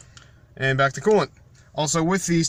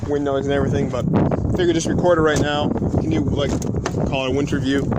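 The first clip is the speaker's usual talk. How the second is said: wind on mic; 2 semitones lower than usual. Real, not acted. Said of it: "I'm sorry for the, uh, wind noise".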